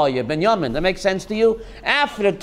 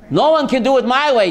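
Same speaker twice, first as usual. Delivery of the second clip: fast, slightly louder; quick proud repeat; 3 dB louder, faster than usual. Acted. Rabbi repeats the boast to David, fast and bright. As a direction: rattle it off confidently.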